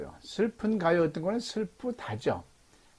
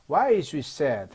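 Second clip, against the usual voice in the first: confident, louder question falling at the end; 4 dB louder, much slower than usual. Shown as a demonstration. Teacher models the English question for learners, confidently. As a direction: ask it with assurance, dropping on "sad". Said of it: "자신 있게 말하면".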